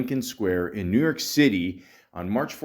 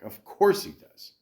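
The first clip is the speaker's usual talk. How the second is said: higher, sing-song of course; mock exaggerated; 9 semitones higher than usual. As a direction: say it like it's obvious, playfully high.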